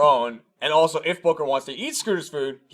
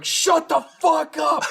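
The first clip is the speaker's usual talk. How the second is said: retold yell; 12 semitones higher, slower than usual. Neighbor yelling outside the apartment, angry shout.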